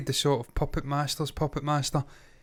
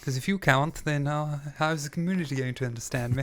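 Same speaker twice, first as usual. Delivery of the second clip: put-on posh English, plummy boxer-meets-actor voice; theatrical posh English accent; posh English gentleman accent. Shown as a demonstration. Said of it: "in this posh English gentleman a-, accent".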